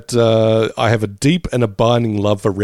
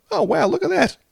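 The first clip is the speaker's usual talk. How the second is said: mock surprise. Imitating a viewer spotting it.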